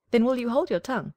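high, loud, haughty hen voice; bossy hen. Acted. Hen quizzing the duckling, high and haughty. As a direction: peck the question out like a proud hen.

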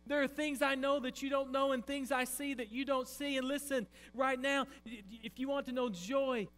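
loud, high, commanding challenge; God confronting Job with a loud, high challenge; booming voice of God. Acted. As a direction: thunder it down from the throne.

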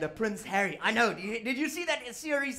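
ordinary talk, nothing marked

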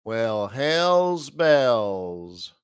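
drawled surprise. Real, not acted. Reacting to the chart.

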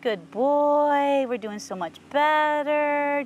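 slow, drawn-out, crooned praise; encouraging horse praise. Real, not acted. Trainer tells horse it's doing better, slow crooning praise. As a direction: stretch the words out for the horse.

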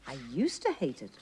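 smiling. A narrator's reading. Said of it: "Missus Bird smiled".

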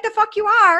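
high, loud indignant outburst; "no way" outrage, reenacted; retold indignant protest. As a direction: object loudly, pitch shooting up. Retold objection to him coming in.

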